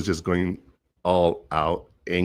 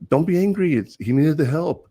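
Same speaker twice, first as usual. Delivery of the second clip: mocking dismissal; 10 semitones higher, 4 dB louder than usual. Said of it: "Someone was like".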